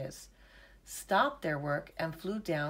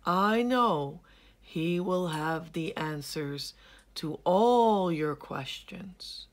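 slow, louder, unhurried chameleon; slow lightly voiced chameleon; 5 dB louder, slower than usual. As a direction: give advice at a crawl. Chameleon advises Hilmi.

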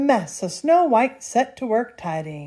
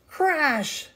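high, drawn-out storytelling exclamation; dramatic crash; 8 semitones higher than usual. A narrator's reading. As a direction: burst out with it, high-pitched. Sound word for the collision.

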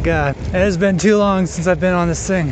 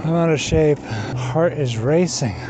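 winded, slow and breathless; gasping lungs on fire; out of breath; slower than usual. Real, not acted. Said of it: "My lungs are on fire".

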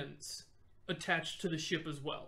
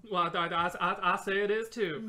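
put-on southern accent; 5 dB louder than usual. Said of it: "You can't do a southern accent".

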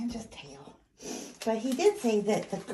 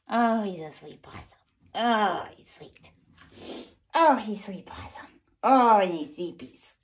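cooing to pet; 3 semitones lower, 5 dB louder than usual. Real, not acted. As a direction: coo over the sweet possum. Cooing over sweet possum.

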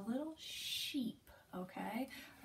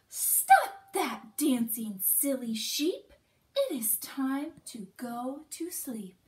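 scolding; 7 dB louder than usual. Acted. Parent scolding sheep.

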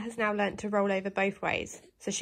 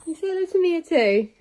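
high, loud encouraging coo; sing-song come on; high coaxing; 10 semitones higher, 4 dB louder, faster than usual. Real, not acted. Urging dog to greet baby.

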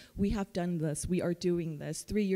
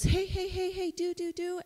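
high, singsong mock hey-hey chant; mock sing-song; 10 semitones higher than usual. Counselor mocking a pushy texter, high sing-song. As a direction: chirp it way up high like an overeager texter. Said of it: "How do I not become like this".

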